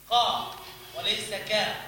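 قا from the back of the tongue, then كا; qaf versus kaf. Shown as a demonstration. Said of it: "أقصى اللسان".

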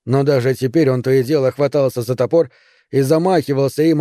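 usual speaking voice

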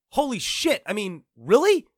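can't believe what you read; stunned. Real, not acted. Vlogger stunned by Dear Esther stage play, incredulous.

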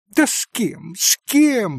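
high, rising, insistent cry; exclaiming. A narrator's reading. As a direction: demand an answer eagerly. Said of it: "воскликнула Лис".

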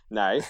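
"No" in an Aussie accent; Australian "no". Shown as a demonstration. Still trying the test word, Australian "No". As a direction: end "No" on an Australian glide. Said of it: "another syllable at the end".

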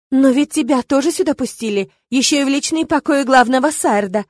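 put-on childish resentment. A narrator's reading. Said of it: "с детской обидой в голосе ответила Ирма".

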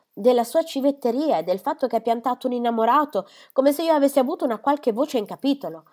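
a vain mother venting her wounded pride; fretful mother airing her grievance; peevish mother. Acted.

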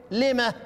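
لما with the pause-ha sounded; stopping with ha. Shown as a demonstration. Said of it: "هتقف إيه". (الوقف على لمه بهاء السكت)

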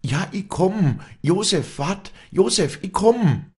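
very high, carrying shout; trumpeting call. A narrator's reading. Walli calls down to Josef, ringing out very high. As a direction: call down a gorge with all urgency. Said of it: "schmetterte sie mit Posaunenton".

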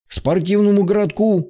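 high barked command; shouting orders. Acted. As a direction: call out the destination like a drill order. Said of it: "скомандовал лейтенант".

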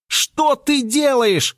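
drawn-out high alarm; horrified yell. A narrator's reading. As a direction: cry out in disbelief. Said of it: "заорал я".

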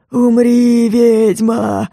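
a ghoul growling at the witch; menacing undead voice; ghoul's threat. A narrator's reading. (упырь угрожает ведьме)

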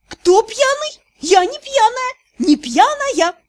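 high tipsy denial; giddy drunk protest. A narrator's reading. Heroine drunk from tincture.

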